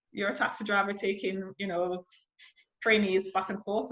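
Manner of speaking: ordinary talk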